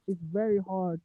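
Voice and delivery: quiet and distant, like from the next room; from another room. Real, not acted. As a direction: voice far from the mic. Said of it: "you're yelling from the other room".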